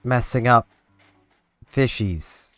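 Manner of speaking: frustrated outburst at own mistake; scolding shout. Real, not acted. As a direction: snap at your own brain. Scolding own brain while fishing.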